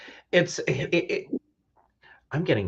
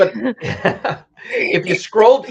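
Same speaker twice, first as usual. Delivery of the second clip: laughing; 11 semitones higher, 8 dB louder, much slower than usual. Real, not acted. Laughing while sharing screen.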